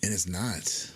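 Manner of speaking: hushed, conspiratorial whisper; whispered aside, surprised the film isn't rated R. Real, not acted. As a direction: drop to a whisper for the punchline. Dramatic aside about the rating.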